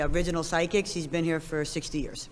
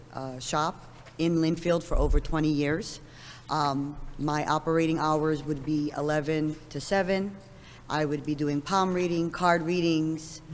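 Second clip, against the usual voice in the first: hoarse, scratchy speaking voice. Real, not acted. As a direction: talk through a scratchy throat. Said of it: "Excuse my scratchy voice".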